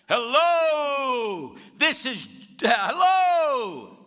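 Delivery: high drawn-out bellowing calls. Retold or imitated. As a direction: call down even harder, trying to get her attention. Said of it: "The little old lady keeps saying".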